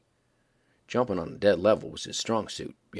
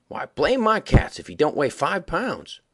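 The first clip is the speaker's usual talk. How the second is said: slow, high, louder astonishment; astonished exclamation; 6 semitones higher, 5 dB louder, slower than usual. A narrator's reading. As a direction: marvel at the weight. Smiley lifts the heavy frog.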